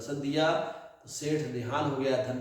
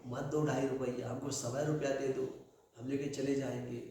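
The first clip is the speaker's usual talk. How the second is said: softly in ear; 5 dB quieter than usual. Acted. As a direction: murmur it into his ear. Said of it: "कान में धीरे से बोले". (कान में धीमे से फुसफुसाहट)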